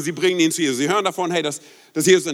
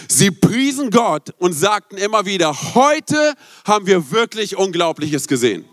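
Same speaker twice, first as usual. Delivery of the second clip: slow, awed Bible reading; preacher reading the crowd's amazement, slow and awed; solemn scripture reading; slower than usual. Acted. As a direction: let the wonder sink in, slowly. Preacher reads climax of scripture.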